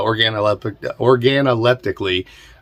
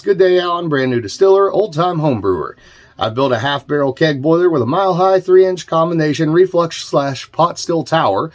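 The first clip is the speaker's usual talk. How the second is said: lively read-aloud of a viewer's question; reading viewer mail; 3 semitones higher than usual. Real, not acted. Host reading a home brewer's question aloud, lifted read-out voice. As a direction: read the letter out with a lifted, projected voice.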